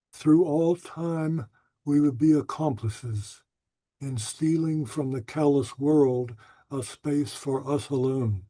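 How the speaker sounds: tender, unhurried recitation; poem reading. Acted. Poet reading his poem about old love letters, tender and unhurried. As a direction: linger wistfully over the lost letters.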